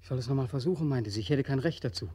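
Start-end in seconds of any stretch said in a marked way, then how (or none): 1.2-2.1 quoting the river. Acted. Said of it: "sagte sie".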